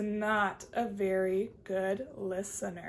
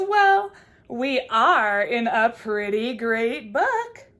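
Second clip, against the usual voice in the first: slow, loud raccoon voice; drawled, satisfied raccoon; 2 semitones lower, 6 dB louder, much slower than usual. Acted. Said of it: "the raccoon says".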